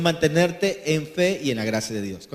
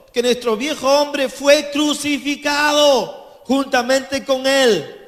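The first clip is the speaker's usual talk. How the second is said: scripture reading; 7 semitones higher than usual. Acted. Preacher reads Romans to the church, proclaiming. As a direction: read the verses as a proclamation.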